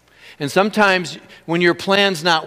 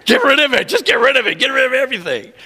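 insistent order; 6 semitones higher, faster than usual. Retold or imitated. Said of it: "I said".

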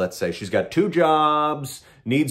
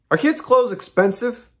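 high, coaxing question to tempt him; mock sweet agent; 10 semitones higher, 3 dB louder than usual. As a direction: dangle it like bait. Agent baiting with money.

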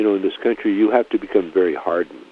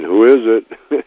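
slow, dopey stoner asking who's there; stupid stoner voice; 3 semitones higher, 9 dB louder, slower than usual. Retold or imitated. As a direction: drawl it like a dazed stoner. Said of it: "in that stupid don't, stoner voice".

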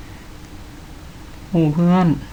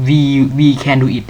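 slow encouraging line; 3 dB louder, much slower than usual. Shown as a demonstration. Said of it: "ผมต้องพูดว่า".

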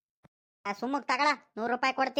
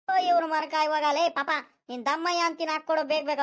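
higher-pitched, exasperated urging; impatient pleading; 4 semitones higher than usual. Acted. Hurried customer to dawdling shopkeeper, impatient pleading.

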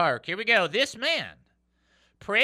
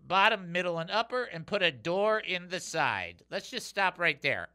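ordinary delivery

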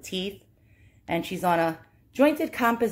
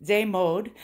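French accent; 2 semitones higher, slower than usual. Shown as a demonstration. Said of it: "Oh God, French, help".

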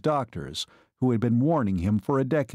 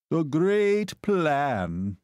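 scornful exclamation; 5 semitones higher, much slower than usual. A narrator's reading. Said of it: "Balt Hare ejaculated".

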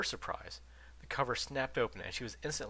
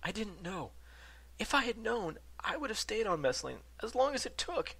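mild sobbing; 13 semitones higher, 3 dB louder than usual. A narrator's reading. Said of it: "fell to his knees sobbing".

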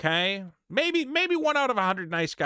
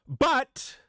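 mock indignation; much slower than usual. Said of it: "You don't get a".

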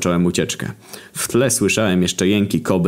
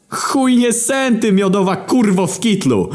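very high, loud, slow yell; sudden shout; 3 dB louder than usual. A narrator's reading. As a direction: scream it at the doctor in a fury. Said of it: "krzyknął nagle Komora". (Komorowski nagle wykrzykuje wysoko i głośno)

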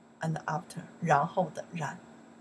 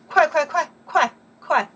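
快 快 快 cried out high and loud; urgent calls; 9 semitones higher, 11 dB louder than usual. Shown as a demonstration. Hurrying somebody along, high urgent calls. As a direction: hurry them along, insistent. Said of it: "You want somebody doing something fast".

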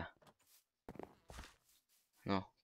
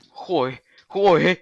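frustrated cursing; 6 semitones higher, 9 dB louder, much slower than usual. Real, not acted. Swearing, rising loud.

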